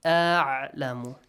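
"A'lamu" slowly, glottal hamza then throaty ain; correct hamza and ain. Shown as a demonstration. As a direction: linger on the first syllable of "A'lamu", closing it on a clear ain. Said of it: "pronounce hamza and ain correctly".

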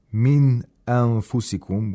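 full clear ن at the end of مِّنْ before أَنفُسِكُمْ; idhar. Shown as a demonstration. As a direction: pronounce the ن of مِّنْ cleanly, then start أَنفُسِكُمْ. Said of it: "We have idhar of nun sakina".

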